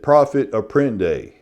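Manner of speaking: profit apprende said the South Carolina way, French ignored; Southern pronunciation. Shown as a demonstration. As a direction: say profit apprende like a plain English word. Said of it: "in South Carolina, we pronounce it".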